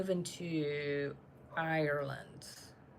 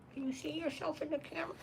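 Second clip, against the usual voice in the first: higher, fast pet voice; talking to a pet; 10 semitones higher, 7 dB quieter, faster than usual. Real, not acted. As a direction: coo at the dog quickly, pitched up. Talking sweetly to the dog.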